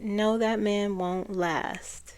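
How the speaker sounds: slow, drawn-out quote in her manner; her way of speaking. Retold or imitated. Channeler relaying her verdict on Trump, slow imitated delivery. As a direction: stretch it out, lightly imitating her. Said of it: "it's the way she speaks".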